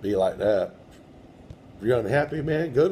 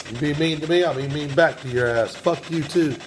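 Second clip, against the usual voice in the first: raised, heated talking-back; angry retort; 4 semitones higher than usual. Real, not acted. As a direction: snap back at the rude spirit. Scolding a rude spirit.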